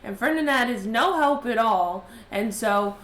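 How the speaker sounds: put-on lonely girl's letter voice. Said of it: "she says".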